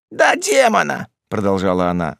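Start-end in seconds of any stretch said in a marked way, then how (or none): 0.1-1.1 high, alarmed woman's voice; fearful insistence. A narrator's reading. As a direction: insist on it with superstitious dread. Маас со страхом говорит о демоне.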